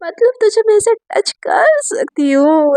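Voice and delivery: drawn-out, mock-coy delight; sing-song tease, slow and lifted; playful teasing. A narrator's reading. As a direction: stretch the words slowly, flirting in jest. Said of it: "मजाक मस्ती वाले mood में आ जाती है".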